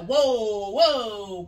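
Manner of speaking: loud drawn-out mock whoa; startled pushback. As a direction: push back at a roar, loudly. Acted reaction to being roared at.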